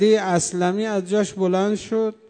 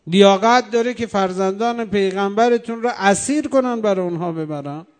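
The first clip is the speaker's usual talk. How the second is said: retold outcry; 4 dB louder than usual. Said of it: "بعد فریاد زد".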